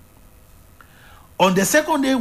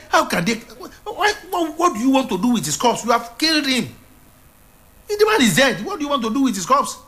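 tearful, higher pleading cry; crying Mary; 7 semitones higher than usual. Acted. Preacher voicing Mary weeping to the gardener, tearful. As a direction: wail it as Mary in tears.

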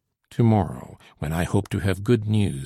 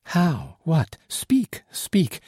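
rising higher and higher, pleading to hear it; eager urging; 8 semitones higher, much slower than usual. A narrator's reading. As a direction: climb in pitch as she begs him to speak. Solange begging for the news.

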